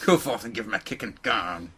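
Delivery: mock command.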